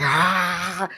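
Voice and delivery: loud, drawn-out pretend scream; mock fearful scream. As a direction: yell out as fear itself, hammed-up. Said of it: "we're so afraid 'cause fear's like".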